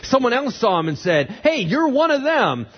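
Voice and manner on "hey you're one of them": high, raised-voice call-out; single him out with a loud high voice; acted accusation. Servant accuses Peter, acted out.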